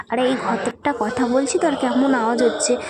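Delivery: talking inside an echoing temple hall; room echo. Real, not acted. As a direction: voice ringing off the temple walls. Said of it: "মানে ইকো হচ্ছে". (মন্দিরের ঘরে প্রতিধ্বনি)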